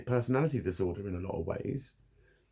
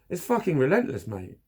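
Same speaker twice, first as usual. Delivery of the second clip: normal talking voice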